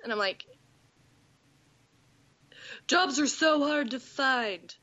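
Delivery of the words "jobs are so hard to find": sarcastic. Retold or imitated. Sarcastic reply to jobless suitor.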